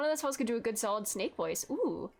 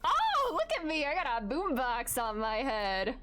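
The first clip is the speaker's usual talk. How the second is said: mock showing off.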